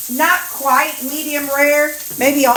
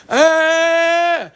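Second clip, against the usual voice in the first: imitating dogs fussing, higher and louder; mock the dogs' open-mouthed fuss; lightly imitated dog bark; dog fuss noise; 6 semitones higher, 4 dB louder than usual. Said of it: "that's how they are".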